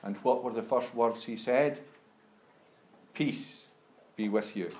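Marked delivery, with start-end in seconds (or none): 3.1-4.8 whispered, breathy "Peace be with you"; hushed greeting. Acted. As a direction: breathe the blessing gently. Quoting Jesus's greeting softly.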